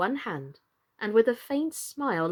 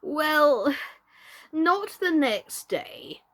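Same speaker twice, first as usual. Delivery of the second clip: slow and pondering, higher pitch; slow, thoughtful; 6 semitones higher, 4 dB louder, much slower than usual. A narrator's reading. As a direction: weigh each word slowly. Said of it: "the knight repeated as before".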